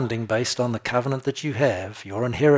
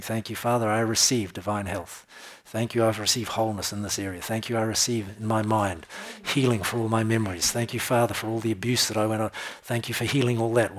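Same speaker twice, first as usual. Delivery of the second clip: thankful prayer; 3 dB quieter than usual. Acted.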